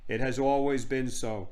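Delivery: slow, grand regal voice; lightly voiced stately queen; haughty queen. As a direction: pronounce it as a queen.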